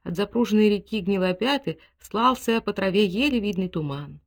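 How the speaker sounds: ordinary delivery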